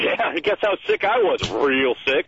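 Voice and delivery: a kid's schoolyard boast, lightly acted; lightly mimicked boastful schoolkid; mildly bragging. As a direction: show off a little, imitating a bragging child. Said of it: "you brag about it".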